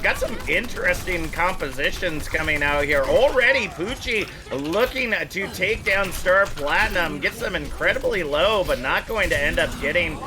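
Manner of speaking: energetic esports caster call; play-by-play commentary. Acted. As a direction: call the fight as it happens. Live play-by-play.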